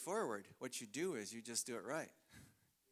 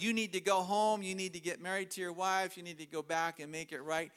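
forceful quoted command; 3 semitones higher, 5 dB louder than usual. Retold or imitated. Evangelist's word to couple.

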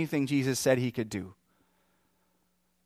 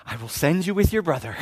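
terse, louder, emphatic exasperation; angry inflection; 2 semitones higher, 5 dB louder, faster than usual. Acted. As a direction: say it fed up, stressing each word. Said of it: "he's angry with this guy".

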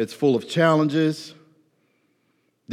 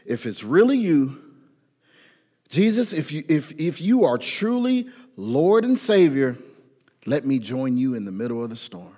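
earnest prayer. Retold or imitated. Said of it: "He didn't say anything close to that".

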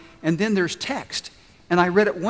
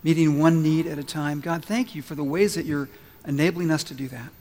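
lower, hushed pastoral prayer; leading prayer; 3 semitones lower than usual. Real, not acted. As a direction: pray gently over the congregation, keeping the pitch low. Leads the congregation in prayer.

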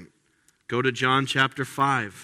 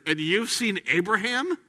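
incredulous crowd; 7 semitones higher than usual. Retold or imitated. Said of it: "the Jews said to him".

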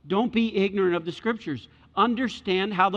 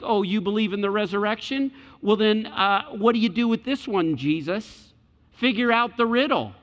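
mock-challenging, pitched a little higher; scoffing sarcasm; 4 semitones higher than usual. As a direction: voice the scoffers baiting him with a riddle. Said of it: "hear the scoffing and sarcasm".

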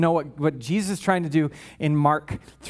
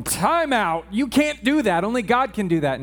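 mild objection; 3 semitones higher than usual. Retold or imitated. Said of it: "scribes are around going".

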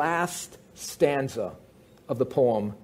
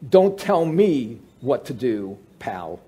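defiant paraphrase; 2 semitones lower, slower than usual. Retold or imitated. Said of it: "paraphrasing Henley defiantly".

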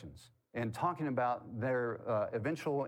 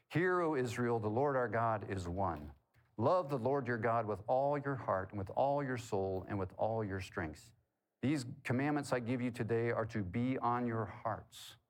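scripture reading. Real, not acted. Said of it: "Let me read just a couple of verses".

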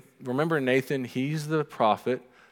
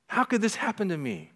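higher self-pitying question; mock whine; 8 semitones higher than usual. Preacher voicing listener's self-pity, lightly whined. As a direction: ask it with wounded disbelief. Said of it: "What are you saying that to?".

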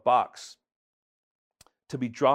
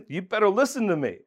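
mock stern God; 3 semitones higher, 5 dB louder than usual. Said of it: "I know he's saying".

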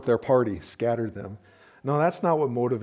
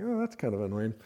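soft, mildly irritated mutter to a first date; mildly annoyed aside; 2 semitones lower, 6 dB quieter than usual. Retold or imitated. On a first date, noticing an annoying habit, softly irked. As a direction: quietly put out, under the breath. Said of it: "you're kinda like".

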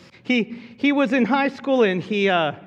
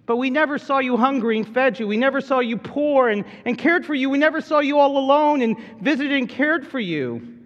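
a lightly voiced, higher sheep protesting humbly; mild, earnest denial, pitched up; 4 semitones higher than usual. Sheep protesting humbly to the king, mildly higher. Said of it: "that's not what they said".

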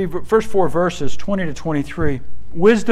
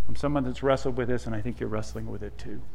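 humble confession; 7 semitones lower, 8 dB quieter, faster than usual. Retold or imitated. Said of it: "as opposed to".

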